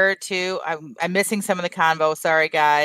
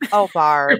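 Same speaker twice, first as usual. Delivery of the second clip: laughing; 3 semitones lower, 3 dB louder than usual. Real, not acted. Laughing at Barb's joke.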